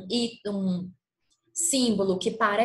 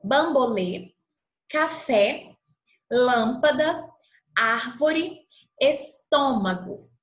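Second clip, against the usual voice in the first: each word said slowly and loud with the stressed syllable marked; clear model words; 2 semitones higher, 4 dB louder, slower than usual. Shown as a demonstration. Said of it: "Olhem só as palavras".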